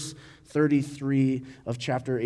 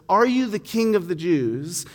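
exasperated question; 3 semitones higher than usual. Retold or imitated. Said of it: "in a tone that's exasperated, frustrated, annoyed".

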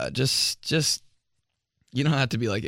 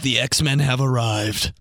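announcer voice. Retold or imitated. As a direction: present it like a movie trailer. Podcast announcer voice, retold.

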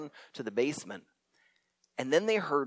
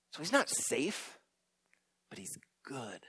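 softer, fading to a whisper on good; hushed emphasis; 4 semitones lower, 11 dB quieter than usual. Acted. Preacher repeating the Aslan line to the congregation, hushed. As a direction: let the last words drop to a whisper. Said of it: "preacher repeats the line".

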